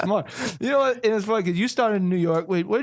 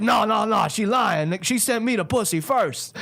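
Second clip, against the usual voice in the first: put-on higher, insistent New York accent; 5 semitones higher, slower than usual. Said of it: "talent's got that strong New York accent".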